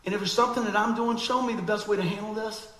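earnest prayer. Retold or imitated. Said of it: "But I say".

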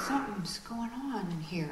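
awed whisper of a puzzled customer. Retold or imitated. A shop visitor whispering to a friend in awe. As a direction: breathe it like a secret you just noticed.

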